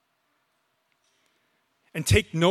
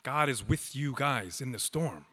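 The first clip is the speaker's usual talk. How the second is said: much softer, intimate "God is with you guys in the storm"; softly repeated; 2 semitones lower, 8 dB quieter than usual. Real, not acted. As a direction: drop right down and say "God is with you guys in the storm" gently to them. Preacher proclaims, then repeats softly.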